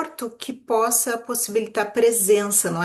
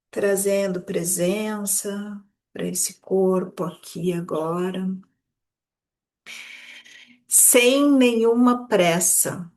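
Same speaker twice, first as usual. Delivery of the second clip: unhurried meditation guide, drawing out words; guided meditation; slower than usual. Acted. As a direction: ease listeners gently into their bodies. (meditação guiada, sem nenhuma pressa)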